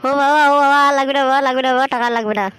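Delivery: loud pained pleading; begging. Acted. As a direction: beg him to stop hitting. Son begging father to stop.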